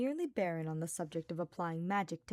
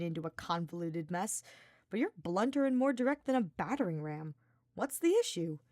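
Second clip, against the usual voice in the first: put-on higher, louder, playful young knight; cocky teasing Sylvain; 5 semitones higher, 3 dB louder than usual. Sylvain pestering Hubert about Ferdinand, teasing. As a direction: needle him with a grin in your voice.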